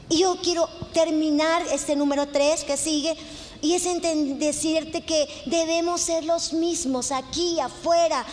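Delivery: insistent pulpit exhortation; emphatic preaching. Real, not acted. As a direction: press each point on the congregation.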